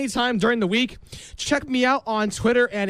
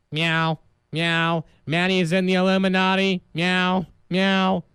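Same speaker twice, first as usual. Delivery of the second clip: cat voice; 3 semitones lower than usual. Pretend. Host voices his grandmother's cat, low mock meows. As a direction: lower mock meowing cat.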